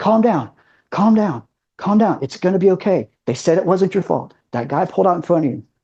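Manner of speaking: acted, frantic, tearful, desperate crying voice. Retelling what she said while standing over him crying, imitating frantic tearful pleading. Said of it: "she's crying, and she's frantically saying".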